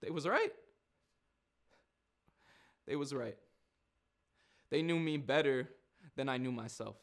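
halting, resigned acceptance with long pauses; Nigel, subdued admission. Acted. Nigel admitting they knew him better, subdued. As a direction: let the truth land piece by piece.

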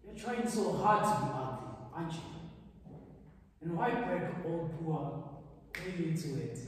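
accusing. Acted. Accusing him in scene.

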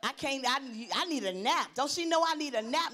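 mock weary griping, loud and quick; grumbling complainer. Tired attendee griping about the conference, grumbling. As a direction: complain like a worn-out churchgoer.

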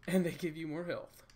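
loud and lively; sounding like a pop star. Real, not acted. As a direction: belt it out a touch like a pop star. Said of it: "I sound like a pop star".

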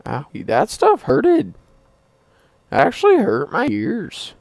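high slow whine; whiny voice. Pretend. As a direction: whine like a hurt kid. Mock pained whine.

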